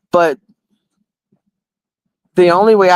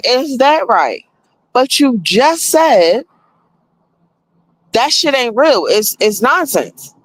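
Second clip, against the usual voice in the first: incredulous; 6 semitones higher than usual. Retold or imitated. Incredulous retort to AI.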